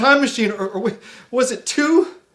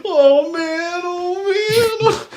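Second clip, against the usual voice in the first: rising laugh-cry whimper; sobbing; 4 semitones higher, much slower than usual. Acted. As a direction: sob it out, half laughing. Alien sobbing.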